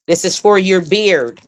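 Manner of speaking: beard leaned on a little harder; lightly emphasizing beard for the fellas; stress on beard. Shown as a demonstration. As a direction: push the word beard so it stands out. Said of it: "I'm s-, emphasizing beard".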